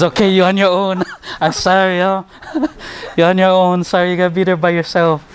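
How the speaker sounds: retelling the friend bailing out, giggling; laughing high mock apology. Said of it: "He says".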